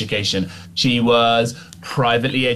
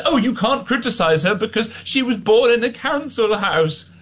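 mock whine; 9 semitones higher than usual. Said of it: "And all of this".

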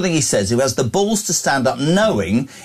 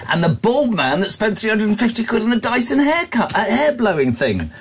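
higher put-on Scottish accent mimicking Sturgeon's husband; Jimmy Cranky accent; 7 semitones higher than usual. Host mocks Sturgeon's husband for co-host in Scottish accent. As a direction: lampoon him in a hammed-up Scottish accent. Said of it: "What is that accent?".

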